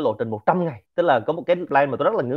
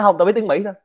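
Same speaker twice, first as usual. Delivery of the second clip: sheepish American; 9 semitones higher, 7 dB louder than usual. Retold or imitated. American admits only English.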